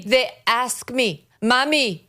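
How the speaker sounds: high, mocking put-on Spanish accent; the speaker's fake Spanish accent. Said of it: "fake cosplaying as a Spaniard".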